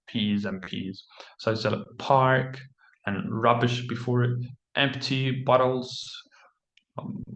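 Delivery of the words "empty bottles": slow whisper, sounding out the words; whispered practice. Shown as a demonstration. Test taker practising tricky words before recording, whispered. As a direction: mouth "empty bottles" under the breath to practise. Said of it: "practice linking words together".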